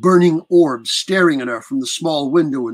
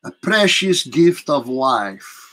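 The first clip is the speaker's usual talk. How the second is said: aged, mellow villain; much slower than usual. Acted. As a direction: let it roll out like old wine. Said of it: "his voice well aged like wine".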